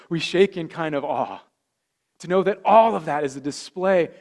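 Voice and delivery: rising sermon fervor; fervent preaching. Acted. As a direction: preach it out to the whole room with conviction. Preacher builds to full force.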